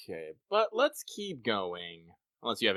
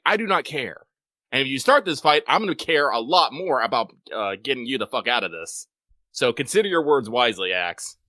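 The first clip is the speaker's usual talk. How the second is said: louder stern warning; mock stern warning; 3 semitones higher, 6 dB louder than usual. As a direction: threaten like a strict host. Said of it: "I was like".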